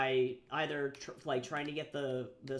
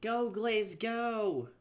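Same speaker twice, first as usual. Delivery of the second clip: high, eager little cheer; 8 semitones higher, much slower than usual. Real, not acted. Waiting on a slow program, cheering it on with a high eager cheer. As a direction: egg the program on like a racehorse. Urging slow software to load.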